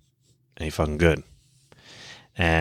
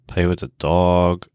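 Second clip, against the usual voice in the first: whiny little tempter voice, pitched up; inner bitch voice; 2 semitones higher than usual. Retold or imitated. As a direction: talk yourself out of training, sweet-talking. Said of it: "the little bitch voice is like".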